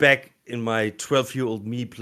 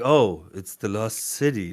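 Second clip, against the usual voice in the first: put-on, matter-of-fact, knowing delivery. Showing how another actor reads the same line, imitating a knowing read. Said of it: "he doesn't say it like that. He says like... he's like he knows".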